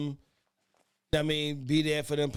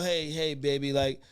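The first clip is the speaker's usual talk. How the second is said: slow, swelling smooth-talker croon, loud at the end; Mister Smooth; 10 dB louder, much slower than usual. Retold or imitated. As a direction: lay it on like a smooth-talking suitor. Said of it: "You had to be a Mister Smooth".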